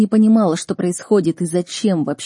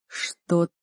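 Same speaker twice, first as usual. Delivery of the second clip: slow, breathless disbelief; gasping; much slower than usual. A narrator's reading. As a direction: choke the words out. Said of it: "задыхался я".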